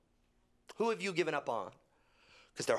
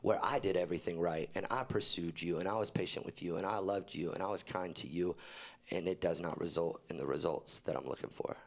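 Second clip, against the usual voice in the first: voice of God; 7 semitones lower than usual. Retold or imitated. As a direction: speak as God, calm and low. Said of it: "I just heard God say to me".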